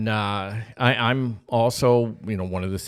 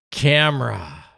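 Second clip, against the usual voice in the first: put-on excited child; 2 semitones higher, 6 dB louder, slower than usual. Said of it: "And I'm like".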